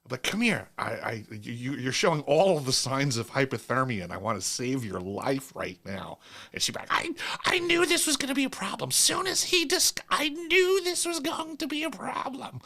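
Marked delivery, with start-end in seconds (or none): 0.2-6.2 mock urgent rescuer. Mock rescuer pursuing HR coworker. 6.9-12.6 much higher, fast, squeaky panicked woman; flustered woman voice. Retold or imitated. Mimicking HR coworker's flustered reply.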